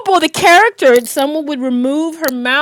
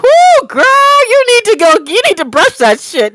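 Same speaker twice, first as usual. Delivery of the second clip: sassy inner voice; 7 semitones higher, 3 dB louder than usual. Retold or imitated.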